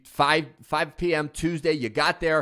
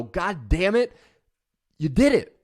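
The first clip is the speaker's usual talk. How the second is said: self-celebration; 5 semitones higher than usual. Retold or imitated. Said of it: "look yourself in the mirror and go".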